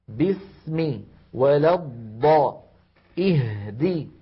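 "باسم", "ولا الضاء", "اهدي" with matched holds; equal timing. Shown as a demonstration. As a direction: sustain s, dad and h for the same time in "باسم، ولا الضاء، اهدي". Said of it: "كل هذه الأزمنة متساوية". (تساوي الأزمنة في "باسم، ولا الضاء، اهدي")

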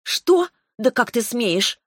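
indignant dragoness offended; outraged. Acted. Terla outraged at Revel. (Терла возмущена дерзостью Ревела)

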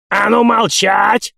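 put-on high, loud, slow old-man bellow; old man shouting. A narrator's reading. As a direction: bark a command like an old caretaker. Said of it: "вновь закричал дед Назар". (крик старика)

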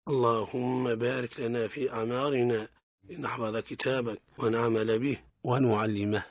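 measured recited supplication; prayer. Acted. Teacher opening the lesson with a prayer, recited devoutly. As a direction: intone the prayer calmly and devoutly.

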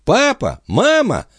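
put-on high little boy's voice calling out; small boy calling. A narrator's reading. Little son calling parents from the stairwell, high childish. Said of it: "не унимался мальчик".

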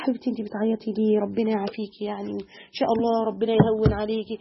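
soft, soothing words to a crying patient; consoling a sick woman softly; gentle comfort. Retold or imitated. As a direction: hush her tears tenderly.

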